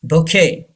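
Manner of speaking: bouquet as "bo-KAY"; silent T. Shown as a demonstration. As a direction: say bouquet with a k sound and no T. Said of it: "T is silent".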